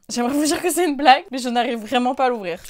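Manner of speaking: talking while straining with effort; straining to open cap. Real, not acted. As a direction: push the words out mid-struggle. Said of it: "je vous jure, j'arrive pas à l'ouvrir".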